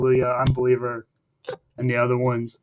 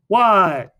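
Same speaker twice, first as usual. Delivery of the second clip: voicing the wolf; 5 semitones higher, 6 dB louder than usual. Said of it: "the wolf is like".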